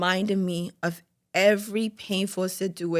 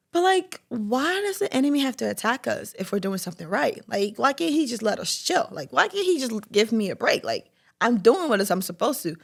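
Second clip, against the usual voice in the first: higher, pleading protest; exasperated complaint; 4 semitones higher than usual. Retold or imitated. Questioning her mentor about the enemy's attacks, exasperated.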